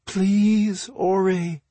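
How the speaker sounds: high, imploring plea; pleading. A narrator's reading. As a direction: beg him, pitch lifted. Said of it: "Magica pleaded".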